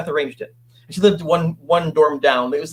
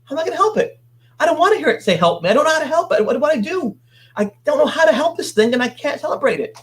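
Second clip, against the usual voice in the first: distraught plea pitched much higher; retold crying plea; 9 semitones higher than usual. Retelling crying over the ghost, high distraught plea. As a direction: relive the helpless tearful panic. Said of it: "and I, I was crying".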